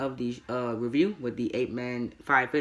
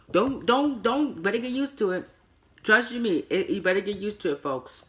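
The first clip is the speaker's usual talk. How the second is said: sarcastic warning; 7 semitones higher than usual. Real, not acted. Sarcastic warning about repeated hype.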